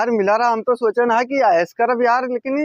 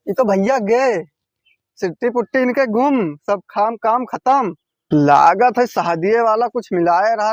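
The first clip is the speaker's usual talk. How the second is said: ordinary talk, nothing marked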